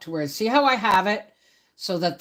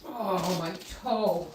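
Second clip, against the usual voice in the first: stubbed toe; 5 dB quieter, slower than usual. Real, not acted. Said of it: "I just stubbed my toe".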